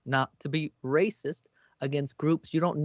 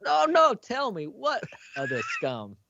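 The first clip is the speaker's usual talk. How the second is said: menacing interrogation; 9 semitones higher than usual. Acted. Pistol pointed, interrogating patron.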